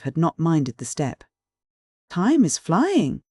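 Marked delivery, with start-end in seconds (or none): 2.1-3.2 high, drawn-out, gaily lilting call; gayest manner. A narrator's reading. President glances at his watch, gaily announcing time to go. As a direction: sing out gaily, stretching the words. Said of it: "said the president in his gayest manner".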